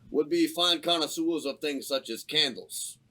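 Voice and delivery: a peddler flattering the gnome and ferret; salesman flourish. Acted. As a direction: sell the candles like a showman. Character pitching candles.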